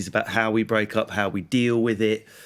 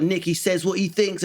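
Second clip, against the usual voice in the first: mock earnest praise; 6 semitones higher than usual. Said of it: "I was like".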